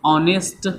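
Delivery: ऑनेस्ट pronounced as spelt in Hindi; ऑनेस्ट begun on a clear vowel, no h sound; Hindi-style pronunciation. Shown as a demonstration. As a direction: say ऑनेस्ट with a silent h, starting on the open o vowel. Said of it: "ज़रा हिंदी में प्रोनाउंसिएट करके देखो".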